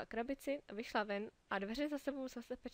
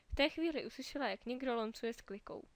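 usual speaking voice

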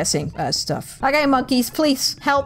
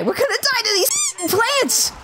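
much higher, slow mock-despairing wail; 11 semitones higher than usual. Real, not acted. Player tells Link they are doomed, high slow wail. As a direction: drag it out like doom is certain. About to lose fight.

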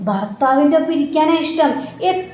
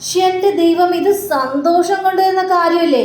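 surprised delight; 6 semitones higher than usual. Acted. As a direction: stretch it out in happy disbelief. Mother hears of a big sale. (ഉയർന്ന ശബ്ദത്തിൽ നീട്ടിയുള്ള അത്ഭുതം)

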